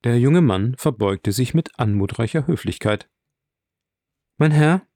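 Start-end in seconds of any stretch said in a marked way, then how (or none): 4.4-4.9 courteous greeting, higher and louder; obliging friendliness. A narrator's reading. Host addresses a newly introduced guest, obligingly friendly. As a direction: greet the guest with eager politeness. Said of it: "sagte Albert mit zuvorkommender Freundlichkeit".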